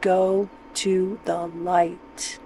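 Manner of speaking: "Go to the light" drawn out slow and soft, like a medium; slow ghostly coaxing. Pretend. Telling a fly at the lamp to go to the light, in a slow hushed coaxing voice. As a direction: lure the fly toward the light, slowly and softly. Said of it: "I always tell the flies".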